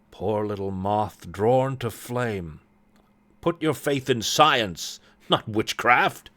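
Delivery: slow, deliberate scolding; admonishing brother. Acted. Brother warns sister off witchcraft, slow admonishing tone. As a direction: chide with measured weight.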